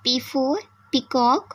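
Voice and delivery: "O for orange" very slow, each word drawn out; slow phonics drill. Shown as a demonstration. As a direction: spell it out slowly for small children. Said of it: "तो पी से sound किसकी आ रही है". (धीमे-धीमे बच्चों को सिखाते हुए)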